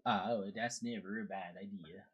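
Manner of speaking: put-on Swedish-Canadian accent; lilting Swedish-Canadian character voice; Credence. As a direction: play a folksy Swedish-Canadian boatman. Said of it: "I'm good old Swedish Canadian".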